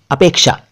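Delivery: अपेक्षा as "apeksha", said in one piece; correct ksh pronunciation. Shown as a demonstration. Repeating the correct word for learners, अपेक्षा said "apeksha" with ksh. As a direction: say अपेक्षा whole, with k then sh. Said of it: "सही उच्चारण अपेक्षा है".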